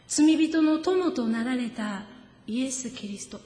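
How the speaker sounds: slow, measured sermon delivery; reverent, slow preaching voice; solemn preaching. Acted. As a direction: lay out each phrase like a creed.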